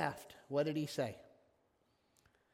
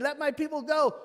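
loud, higher divine command; 6 semitones higher, 5 dB louder than usual. Retold or imitated. The Lord ordering Pharaoh, loud command. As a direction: boom it out as God. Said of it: "The Lord said".

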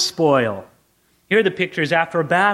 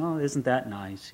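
soft, slow mild delight; mild pleasant smile; 9 semitones lower, 11 dB quieter, slower than usual. Retold or imitated. Pastor mimics the smallest degree of joy, soft and slow. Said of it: "the little tiny smile".

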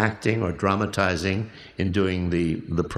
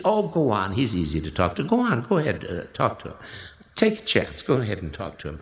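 encouraging. Retold or imitated. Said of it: "She gave you a little encouragement".

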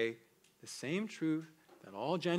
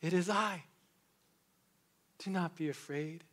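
reassuring Jesus. Acted. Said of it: "hear these words from Jesus ourselves".

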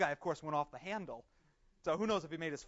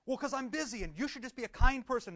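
1 pushy demand; 7 semitones higher, 5 dB louder than usual. Retold or imitated. Rude American in security line.

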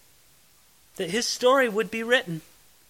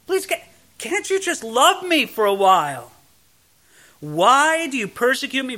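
tearful plea; 3 semitones higher than usual. Retold or imitated. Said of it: "I picture this as being through tears".

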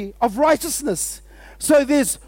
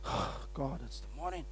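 whispered, much softer, dragging and dreary; groggy morning groan; 8 semitones lower, 18 dB quieter than usual. Shown as a demonstration. Pastor showing the wrong way to greet the morning, whispered groan. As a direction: sound like you hate waking up. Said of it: "you won't say".

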